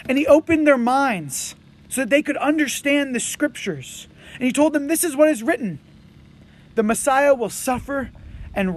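measured, unhurried Bible reading; scripture reading. Acted. Pastor reading Luke to the congregation, measured and solemn. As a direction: read the passage out to the congregation with care.

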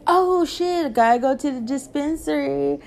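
high, startled oh shit; a quick high surprised blurt; sudden realization. Retold or imitated. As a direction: jolt as if you just remembered.

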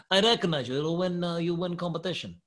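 put-on Russian accent. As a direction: imitate a Russian tough guy in broken English. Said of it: "this accent is getting worse".

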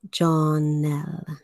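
slow, drawn-out "Jonelle" with both syllables distinct; careful pronunciation. Shown as a demonstration. Host shows how the channel name is pronounced, slowly enunciating "Jonelle". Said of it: "I want to really enunciate that".

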